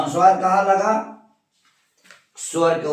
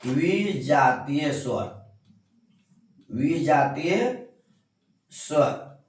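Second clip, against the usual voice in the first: slow dictation; 2 semitones lower, slower than usual. Shown as a demonstration. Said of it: "क्या है?".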